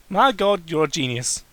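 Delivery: mocking the fanfic's praise, sarcastic; mock amazement. Real, not acted. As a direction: fake being blown away by it.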